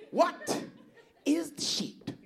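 high puzzled voice. Retold or imitated. Voicing puzzled men, high pitch.

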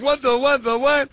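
high, sputtering disbelief; mock shock at seeing him; stunned. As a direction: sputter it out, caught off guard. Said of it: "I'm like".

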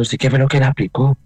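retold shouting. Nurse confronts the man who gave the drug, shouting as retold. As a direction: demand an answer as the nurse did. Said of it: "Pero así gritando".

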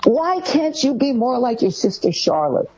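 mild exasperated nag; comparing parent. Retold or imitated. Parent comparing child to sister, mildly nagging.

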